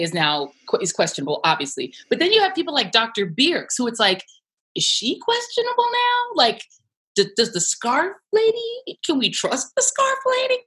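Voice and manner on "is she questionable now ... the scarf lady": lightly mocking doubter. Voicing public doubt, mocking.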